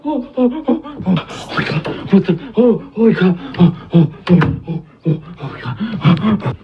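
excited. Real, not acted. Just got chased.

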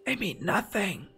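slow menacing whisper; villain gloat. Acted. Player mocks enemy reinforcements as a sinister overlord. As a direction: breathe it like a dark overlord.

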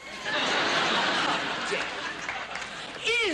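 theatrical how-dare-you; mock outrage. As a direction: play the offended queen. Queen feigns outrage.

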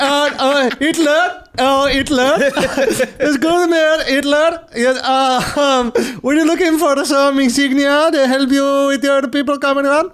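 chirpy, overly helpful shop clerk; high eager shopkeeper voice. Pretend. Acting Indian seller to Nazis.

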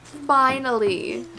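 loud, high-pitched real excitement; thrilled. Real, not acted. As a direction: cheer like a fan who waited ages. Viewer thrilled at actor appearing.

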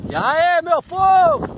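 high, loud cheerful call; excited greeting. Real, not acted. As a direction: shout hello to the viewers. (saudação empolgada)

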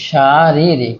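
"শারীরিক" drawn out in separate syllables. Shown as a demonstration. Teacher showing students the spelling, "শারীরিক" sounded out syllable by syllable. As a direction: stretch each long vowel of "শারীরিক". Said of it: "কোন বানানটি শুদ্ধ?".

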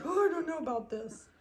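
high, hesitant voice for a puppy; unsure puppy. Pretend. Breeder voices the wide-eyed puppy, high doubtful puppy voice. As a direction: speak as a doubtful little puppy. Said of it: "He's like".

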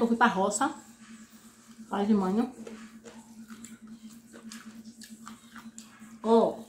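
speaking between bites; talking while chewing. Real, not acted. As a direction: mouth full of food. Seen 4: Bites chicken, chews between phrases; food visible in mouth while speaking.

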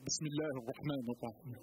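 low, still, unhurried Arabic phrase; calm Arabic recitation. Shown as a demonstration. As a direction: answer the fight with peace. Stood still facing a fighter.

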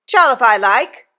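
mildly growled, loud defiance; Orlick. A narrator's reading. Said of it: "growled Orlick".

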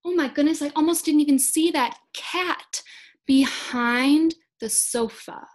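put-on high, bright oh my goodness for kids; mock surprise. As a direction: act amazed at spotting the cat. Pretends to spot hidden cat.

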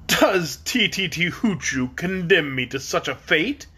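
slow, strained and hoarse, the king shaken. Acted. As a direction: croak out the question in dismay. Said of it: "he asked in a hoarse voice".

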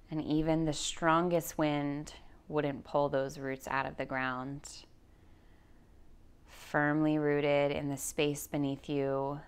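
calm, measured guide voice with long pauses; guided meditation. Acted. Yoga teacher guiding listeners through anxiety, in guided meditation voice. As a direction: lead them slowly into grounding, leaving space for breath.

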